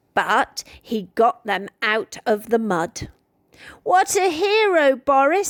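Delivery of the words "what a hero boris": high, bright-eyed praise for the hero; a proud teacher thanking Boris; delighted praise. A narrator's reading. Miss Webb praises Boris.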